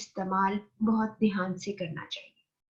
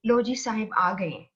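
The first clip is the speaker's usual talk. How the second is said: mildly taunting announcement with a falling end; understated sarcasm, lightly acted; sarcastic. Shown as a demonstration. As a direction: demonstrate a dry jibe at a latecomer. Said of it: "तंजिया तरीके से".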